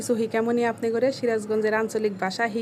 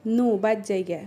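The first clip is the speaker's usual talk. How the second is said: regional Sirajganj Bengali accent; Sirajganj dialect. Shown as a demonstration. Urging a companion to go home, Sirajganj dialect. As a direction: say it like a Sirajganj local. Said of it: "এই কথাটাকে আমরা বলি".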